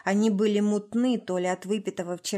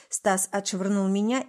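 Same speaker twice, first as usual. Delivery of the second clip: ordinary delivery, nothing marked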